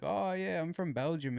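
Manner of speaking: lightly voiced Belgian oddball; imitated Belgian man. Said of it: "he was like".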